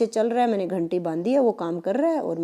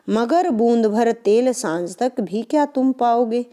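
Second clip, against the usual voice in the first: poem recitation; 3 semitones higher, slower than usual. Shown as a demonstration. Teacher reciting the poem lines.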